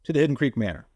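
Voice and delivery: theatrical spooky host greeting; horror host. Acted. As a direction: welcome them like a horror host. Spooky haunt welcome greeting.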